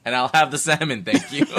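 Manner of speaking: mock haughty diner. Refused diner ordering anyway, mock haughty. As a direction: order grandly through a laugh.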